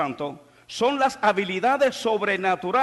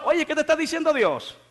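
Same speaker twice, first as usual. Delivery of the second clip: fiery preaching; 8 semitones higher than usual. Acted. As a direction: drive the point home to the church. Preaching to the congregation.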